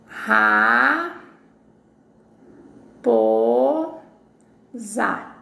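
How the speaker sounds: Ra, po, za each said alone with long pauses; syllables apart. Shown as a demonstration. Teacher to class, breaking the word into syllables. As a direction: split raposa into Ra, po, za. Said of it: "observe cada sílaba dessa palavra".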